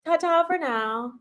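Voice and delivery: "Ta-ta for now" sung out high with a lilting rise; bright lilting "Ta-ta for now"; singsong goodbye. Shown as a demonstration. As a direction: toss off "Ta-ta for now" high and cheery like a cartoon farewell. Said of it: "playful goodbye repeated".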